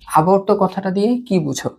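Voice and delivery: whispered question to the class. Shown as a demonstration. Teacher whispers the question to students to draw them in, whispering. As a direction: breathe the question, no voice.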